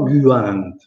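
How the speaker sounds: Guant with a plain Italian U and a w glide. Shown as a demonstration. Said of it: "si pronuncia anche guant". (Guant con la U italiana, non lombarda)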